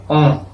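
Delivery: "on" as a nasal vowel, as if M or N followed; nasalized O. Shown as a demonstration. Teacher showing the tilde's effect on O, nasalized. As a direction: let "on" ring through the nose. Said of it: "nasaliza a estas vocales".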